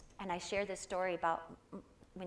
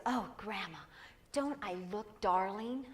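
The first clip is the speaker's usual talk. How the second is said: put-on little girl showing off; 2 semitones higher than usual. Granddaughter asking grandma about her princess dress, lightly voiced. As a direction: coo it like a child twirling in a dress.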